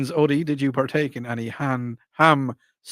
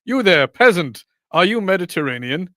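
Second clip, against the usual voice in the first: put-on Mediterranean accent; 5 semitones higher, 6 dB louder than usual. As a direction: call down to a peasant in a Mediterranean accent. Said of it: "That was a Mediterranean accent".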